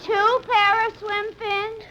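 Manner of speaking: high, slow disbelieving cry; incredulous. Acted. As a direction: wail it in disbelief. Incredulous at the date story.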